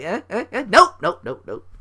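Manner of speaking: high teasing nope nope; mocking refusal. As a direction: taunt like snatching a carrot away. Mocking WWE booking again.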